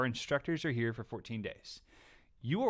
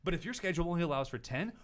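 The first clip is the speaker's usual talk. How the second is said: exasperated reply; 7 semitones higher, 7 dB louder than usual. Retold or imitated. Host retelling his reply to an angry customer, loud and exasperated. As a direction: spell it out as if to a stubborn child.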